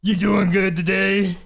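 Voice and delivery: breathy creepy stalker greeting; heavy breathing phone whisper. Retold or imitated. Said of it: "See, me, on the other hand, I'd be like".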